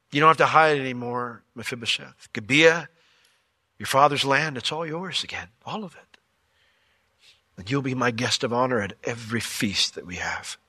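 David's kind voice, softening to near hush; gentle reassurance. Acted. King to lame Mephibosheth, tender and reassuring. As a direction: tell him gently he is safe now.

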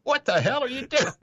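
high, loud mock outrage; exasperated allies. Canadians and Americans yelling at tea-drinking Brits, high mock outrage. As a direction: shriek it like baffled allies. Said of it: "the Canadians and the Americans are like".

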